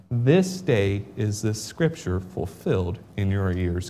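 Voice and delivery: measured King James reading; solemn Bible reading; scripture reading. Acted. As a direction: read the passage with weight. Reads scripture aloud.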